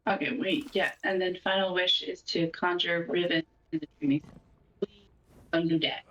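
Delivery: thin earbud mic sound; muffled cheap earbud mic. Real, not acted. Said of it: "It sounds like your earbuds mic".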